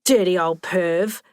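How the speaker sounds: slow, drawn-out telling-off; mock-stern reproach; scolding. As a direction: scold him, stretching each word. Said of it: "Ellie scolded".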